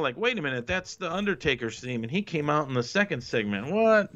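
mock double take at the end; a fan catching the mistake, playing it up; surprised viewer. Viewer catching the continuity slip.

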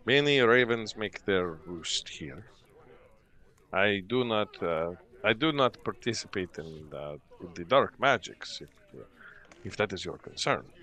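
lightly voiced innkeeper, hesitant denial; guarded innkeeper. Game master voices the innkeeper.

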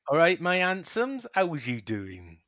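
loud, high-pitched West Country greeting; West Country accent. Pretend. Co-host having a go after host's attempt, West Country accent. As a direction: show them a bold West Country accent, stretching the ending. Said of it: "the West Country accent".

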